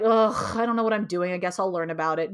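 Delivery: groan, then grudgingly give in; reluctant sigh of resignation, starting loud; begrudging. Retold or imitated. Retelling how she gave in to learning self-compassion, begrudging. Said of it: "very begrudgingly".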